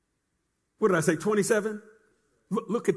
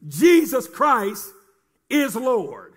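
proclaiming; much slower than usual. Acted. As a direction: ring out Jesus Christ slowly. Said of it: "preacher leads congregation declaration".

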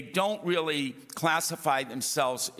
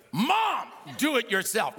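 cheeky shout; 7 semitones higher than usual. Retold or imitated. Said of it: "And I went".

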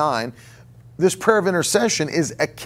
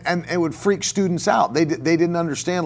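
normal talking voice

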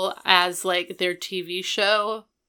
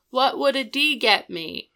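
mild mock yell, slightly raised; a raised, half-hearted shout; retold yell; 4 semitones higher, 4 dB louder than usual. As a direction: lightly imitate an indignant yell. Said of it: "And he yells".

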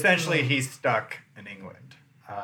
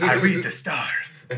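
slow, high, louder boast; grand navigator; 4 semitones higher, 5 dB louder than usual. Pretend. Playing navigator.

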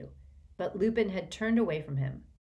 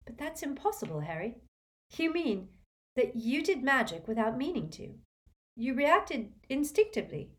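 gently; 7 semitones higher than usual. A narrator's reading. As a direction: reason with him gently. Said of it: "Hermione said gently".

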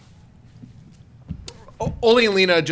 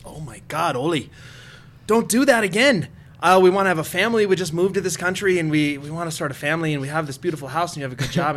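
put-on South Dakota accent. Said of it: "I like how you did the South, uh, Dakota".

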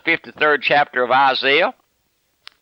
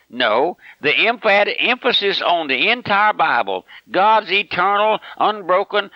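higher-pitched, insistent sermon delivery; worked-up preaching; 4 semitones higher than usual. Real, not acted. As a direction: preach it with rising fervor, pitched up. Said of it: "Maybe I'm getting all rattled".

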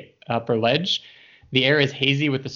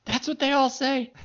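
higher, sneering goblin retort; snide goblin voice; 14 semitones higher than usual. Acted. Goblins answering the player's reassurance, higher sneering voice. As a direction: toss it back as a suspicious goblin.

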